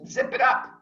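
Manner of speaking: sharp whispered zip it up; hushed warning. Acted. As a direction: hiss it like a warning. Teacher warns students to shut up.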